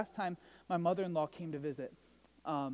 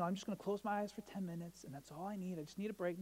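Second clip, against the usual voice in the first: quiet excuse; 11 dB quieter, faster than usual. Acted. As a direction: murmur it like someone sneaking off for a nap. Voices someone begging off for nap.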